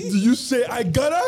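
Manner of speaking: incredulous, laughing callback; laughing question. Real, not acted. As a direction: ask it while cracking up. Cracking up at the mock accent.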